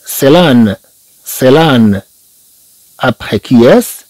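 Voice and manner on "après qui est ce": slow, rising classroom question; slow teacher question. Shown as a demonstration. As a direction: ask the class slowly. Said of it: "teacher asks class slowly".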